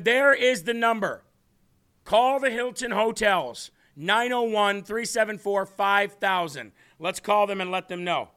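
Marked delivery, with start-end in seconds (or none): 0.0-6.7 loud slow announcing. Real, not acted. Reading hotel number to viewers.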